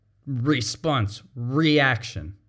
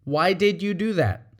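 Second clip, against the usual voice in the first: "did" stressed, genuinely asking; open, curious why; sincere question; 3 semitones higher than usual. Shown as a demonstration. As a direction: ask because you want to know. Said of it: "As opposed to".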